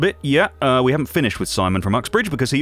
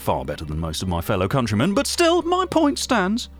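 indignant; 9 semitones higher than usual. Acted. Indignant defence of British teeth.

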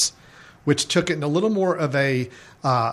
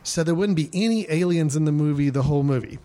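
high-pitched nasal voice; 2 semitones higher than usual. Retold or imitated. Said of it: "a little more high-pitched, uh, nasally voice".

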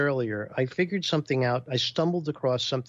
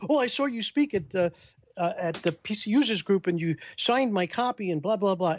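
a lighter, higher eager fan; eager fan voiced a bit higher; 6 semitones higher than usual. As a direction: chatter on like a starstruck fan.

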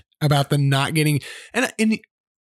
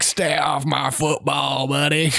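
put-on slow gruff old-man warning, a bit lower; grumpy old man; 3 semitones lower than usual. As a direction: growl it like a cranky neighbor off his lawn. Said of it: "he was like".

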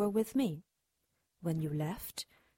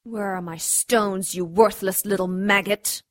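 cold belittling sneer; 4 dB louder than usual. Acted. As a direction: sneer down at a worm. Twisting his broken nose.

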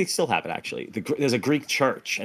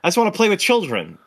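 higher-pitched, mildly pleading character voice; naive wisher; 8 semitones higher, 3 dB louder than usual. Acted. Man turning down a genie's wish, mild mock plea. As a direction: voice a simple wish-maker. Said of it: "and he's like".

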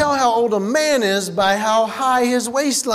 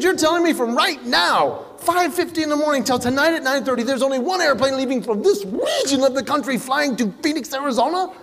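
1 exasperated; 4 semitones higher than usual. Retold or imitated. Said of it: "I said".

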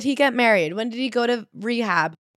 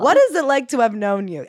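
mock plea to the author; 4 semitones higher, 5 dB louder than usual. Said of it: "I'm like".

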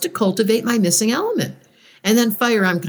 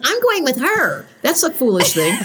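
excited retold self; 4 semitones higher than usual. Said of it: "I was like".

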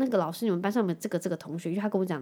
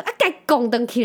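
grandma tells Hunter to hit back, loud imitation; imitating grandma; 3 semitones higher, 7 dB louder than usual. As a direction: urge the kid on like a pushy grandma. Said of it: "然后我妈说".

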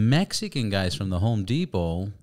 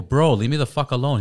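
retold angry; 5 semitones higher, 7 dB louder than usual. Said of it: "I go".

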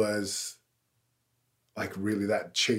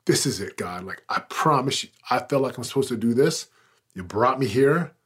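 determined prayer; 3 semitones higher, 5 dB louder than usual. Retold or imitated. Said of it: "I'm so determined".

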